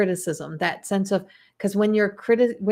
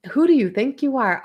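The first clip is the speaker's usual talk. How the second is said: higher, sassy "who do you think you are"; mock sassy challenge; 5 semitones higher, 3 dB louder than usual. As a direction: toss it off like a cheeky diva. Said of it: "I just got that".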